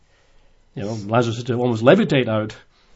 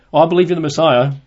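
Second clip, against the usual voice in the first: quick, higher, louder mock reply; glib mimicked answer; 4 semitones higher, 5 dB louder, faster than usual. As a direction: toss off an eager answer that misses the question. Mimics Martha's off-target answer.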